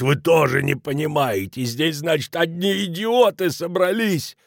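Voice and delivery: put-on high, slow, furious drunk outburst; angry yell. A narrator's reading. Drunk Kelemen yelling at the bar crowd, furious. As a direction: bellow it in outrage. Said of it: "заорал он".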